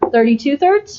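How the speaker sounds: questioning rising tone on thirty-two thirds. Working through a math problem without checking the answer key, questioning tone. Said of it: "I say that with a question in my voice".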